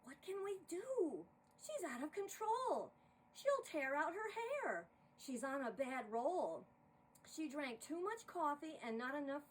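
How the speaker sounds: worried whispers turned to alarm; panicked crew. Acted. Crew panics about the director.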